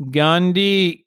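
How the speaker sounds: GANDHI held up, then stopped; stopping. Shown as a demonstration. Host showing friend that the name stops, stopping. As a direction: make GANDHI end like a wall. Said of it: "It stops".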